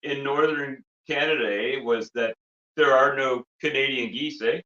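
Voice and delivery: hammed-up Canadian accent; hoser character. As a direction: announce it like a comic Canadian hoser. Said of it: "we're gonna be breaking character".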